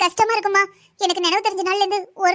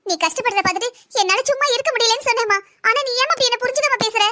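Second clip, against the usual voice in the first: higher, hurt protest to her mother; hurt pleading; 4 semitones higher than usual. Acted. Daughter protests being misunderstood. (வருத்தமான மன்றாட்டு)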